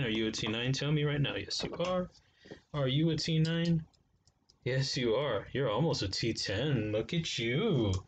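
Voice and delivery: put-on baby talk to a new knife, slowing on the last; cooing at the knife. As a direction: coo at it like a puppy. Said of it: "I don't know why I'm talking like that".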